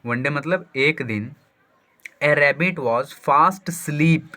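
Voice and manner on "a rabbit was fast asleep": slow dictation. Shown as a demonstration. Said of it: "स्लीप नहीं पढ़ना है".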